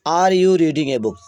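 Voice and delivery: each word stretched out slowly; slow dictation. Shown as a demonstration. Teacher reading the example sentence to the class, slow and deliberate. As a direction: read it slowly so students can copy.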